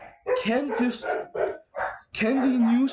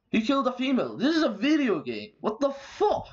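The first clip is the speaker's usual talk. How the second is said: higher-pitched, indignant disbelief; incredulous; 5 semitones higher than usual. Real, not acted. Ranting at the ban over a video game, incredulous. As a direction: protest it in real disbelief, voice lifting high.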